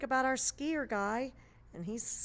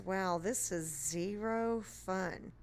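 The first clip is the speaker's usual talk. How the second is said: bored skier; much slower than usual. Acted. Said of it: "he says".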